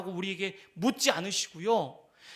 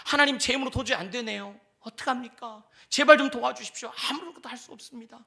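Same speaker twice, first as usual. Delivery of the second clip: higher, louder begging, dropping off at the end; desperate prayer; 4 semitones higher, 5 dB louder than usual. Shown as a demonstration. Believer begging God for help, rising then fading. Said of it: "그리고요".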